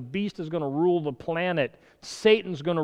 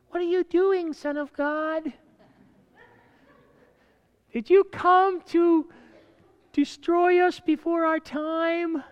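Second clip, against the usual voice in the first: demon voice; 11 semitones higher than usual. Acted. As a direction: drag it out like a mocking demon. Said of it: "You want me to do my demon voice?".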